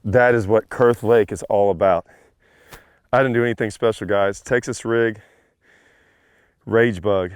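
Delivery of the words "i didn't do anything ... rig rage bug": breathless after the catch; out of breath. Real, not acted. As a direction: talk while catching your breath. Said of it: "I'm all out of breath".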